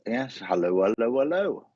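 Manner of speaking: hint of a French accent; French-sounding. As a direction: greet them in a lightly French lilt. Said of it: "that sounded a bit French".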